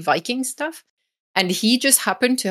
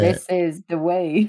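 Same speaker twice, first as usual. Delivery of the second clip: inside a metal tank. Pretend. Mandalorian catchphrase in helmet.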